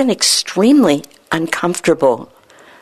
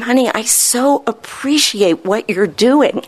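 slow, higher, tender praise for her son; acted heartfelt praise; 5 semitones higher, slower than usual. Shown as a demonstration. Doctor shows patient how to praise son, warmly acted. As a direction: play it like a leading role, fully meant. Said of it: "You have to become an actress".

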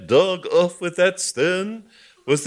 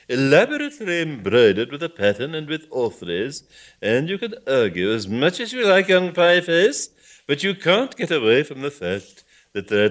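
angry lecturing; 6 semitones higher, 7 dB louder than usual. Acted. Bishop lecturing angrily.

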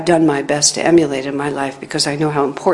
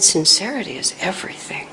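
whisper; 6 dB quieter than usual. Retold or imitated. Teacher's quiet answer.

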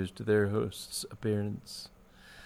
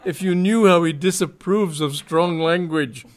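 high, loud, fearful warning; agitated and raised in pitch; trembling alarm; 7 semitones higher, 8 dB louder than usual. A narrator's reading. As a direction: warn them in a panic. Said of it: "cried Lancelot, trembling".

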